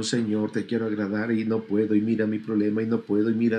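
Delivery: mild mock weeping prayer; tearful prayer. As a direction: lightly mimic a believer crying to God. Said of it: "cada semana estás llorando".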